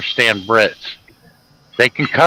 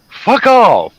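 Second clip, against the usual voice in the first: high, loud mock-British yell; British accent, pitched up and punched out; imitated British accent; 9 semitones higher, 5 dB louder than usual. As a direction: imitate an irate Brit through a door, British accent. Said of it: "I heard Barry's voice go".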